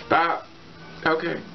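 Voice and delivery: ordinary talk, nothing marked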